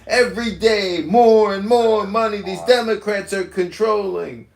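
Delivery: high, loud ranting caricature voice; mock outraged complainer rant; exaggerated cartoon intonation. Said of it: "Dude, why are you talking like that?".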